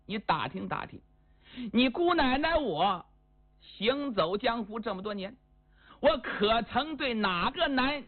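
acted hurt indignation, rising and sinking; aggrieved, tearful anger. Spurned hostess reproaches Wang Bodang, wronged and upset. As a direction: protest like a wronged woman, mildly tearful. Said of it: "气得浑身颤抖，眼泪都出来了，感觉委屈呀".

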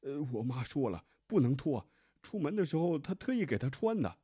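put-on high, loud protesting young man; young husband protesting. A narrator's reading. Husband stops the nurse from undressing his wife, high and protesting. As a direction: blurt it out high and insistent, like a mother's boy. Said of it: "年轻男子突然上前阻止护士".

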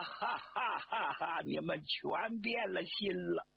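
slow, hollow despairing laugh; bitter laugh. Acted. General mocking his fate before his former officers, bitter laughter.

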